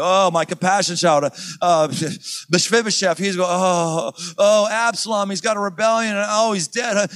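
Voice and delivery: mock self-pitying moan; whiny pity party. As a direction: whimper through the list of woes. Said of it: "endless cycle of downward passivity".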